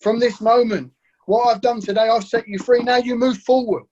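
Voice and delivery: rally them to move on, loud and bright; Jesus urging the woman to move forward, loud and high; urgent call. Acted. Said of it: "He's saying".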